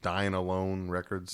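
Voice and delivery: "Dine Alone Records" slowly, word by word; slow repeat. Real, not acted. Co-host asked for the label name again, slow clarifying repeat.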